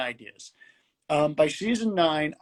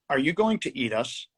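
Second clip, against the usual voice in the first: put-on straight-faced kid; 3 semitones lower than usual. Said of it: "he asks with a straight face".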